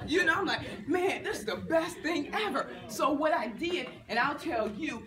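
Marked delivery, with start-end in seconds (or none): 0.9-2.7 laughing delight. Retold or imitated. Enjoying free hotel food.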